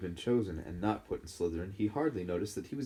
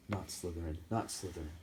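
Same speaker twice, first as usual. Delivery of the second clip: "Not Slytherin" said much softer, under the breath; Harry begs inside his head; thinking pleadingly; 3 semitones lower, 8 dB quieter than usual. Acted. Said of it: "and thought".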